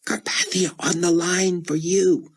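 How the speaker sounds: high, lightly voiced Verna; a hint of a secretary's voice. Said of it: "Verna Z mouthed".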